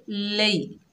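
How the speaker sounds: लई said softly and quickly, the ya glided in; soft quick lai. Shown as a demonstration. Teacher shows students लई said soft and quick. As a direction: glide लई gently and fast. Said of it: "नरमी और जल्दी से अदा करेंगे".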